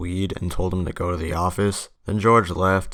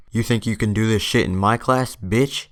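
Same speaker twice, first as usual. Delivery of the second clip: higher-pitched mock outburst; acted angry teacher; 4 semitones higher than usual. Teacher confronts student smoking in her class, mock furious. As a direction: imitate a teacher losing it.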